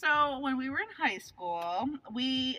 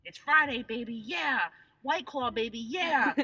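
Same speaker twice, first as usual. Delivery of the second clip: lightly voiced Friday hype guy; punchy imitation of an internet cheer; TikTok guy impression; slower than usual. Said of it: "this is how his TikTok will go".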